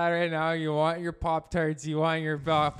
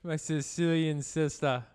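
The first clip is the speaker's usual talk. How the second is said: put-on Sicilian accent. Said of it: "Why do you always do an accent?".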